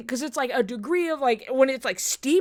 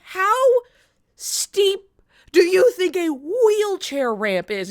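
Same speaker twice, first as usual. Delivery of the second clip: higher, slower, disbelieving question; incredulous question; 7 semitones higher, 5 dB louder, slower than usual. Retold or imitated. Asking friends about a ramp in disbelief. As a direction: ask it like it's obvious.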